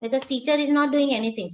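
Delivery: droning lullaby of a boring lesson; bored teacher voice. Shown as a demonstration. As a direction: sound dull and lifeless like a dreary teacher. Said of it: "She's just talking like this".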